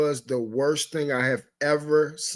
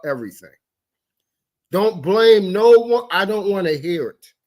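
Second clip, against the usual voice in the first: loud, angry, slowing down to hammer each word; real fury that has to be toned back after; heated rant; 4 dB louder than usual. Real, not acted. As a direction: really chew them out. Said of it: "Let me tone it back".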